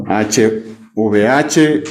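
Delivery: letters "H V H" spelt out very slowly; spelling letters. Shown as a demonstration. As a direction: spell "H V H" one letter at a time. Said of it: "a ver, J". (deletreando "H V H" muy despacio)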